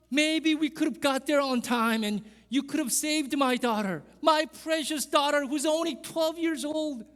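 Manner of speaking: grieving father asking Jesus why he was delayed; distraught pleading father. Acted. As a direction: plead with Jesus, heartbroken and bewildered. Jairus pleading over dead daughter.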